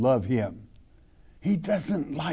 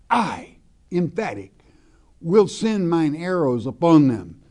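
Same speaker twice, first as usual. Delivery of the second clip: "I" set apart, then "will" stressed; emphatic I; 4 dB louder than usual. Shown as a demonstration. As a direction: lean on "I" and "will" with pauses.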